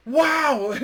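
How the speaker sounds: high, loud amazed exclamation; acted-out delighted wow; so excited. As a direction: imitate a thrilled goalie. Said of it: "he was so excited".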